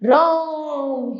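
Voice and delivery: राम stretched slowly as if calling someone; slow prolonged calling राम; drawn-out call. Shown as a demonstration. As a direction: hold राम long like a call. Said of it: "पुकारने के समय किया जाता है".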